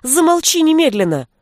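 high shriek, way up; high screaming shout; shrill shriek. A narrator's reading. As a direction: shriek it at him. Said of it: "взвизгнула Веся".

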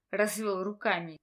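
usual speaking voice

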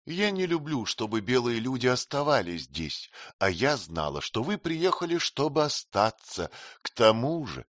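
lightly voiced queen, teasing and frank; Sitabhai, lightly voiced. (слегка изображённая царица, кокетливо)

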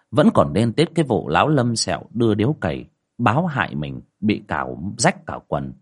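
measured storytelling voice over music; story narration. A narrator's reading. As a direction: tell the ghost tale steadily. Narration between quotes.

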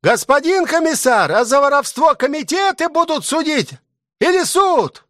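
high, calling soldier voice from the crowd. A narrator's reading. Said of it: "Из толпы начали кричать". (выкрик солдата из толпы, высоко)

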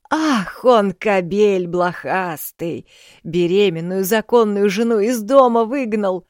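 loud, high, slowed-down indignation; outraged old woman. A narrator's reading. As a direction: curse the husband for her.

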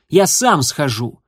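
a hateful, jeering challenge; open hatred. Acted. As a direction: taunt the rival with open contempt. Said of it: "с откровенной ненавистью".

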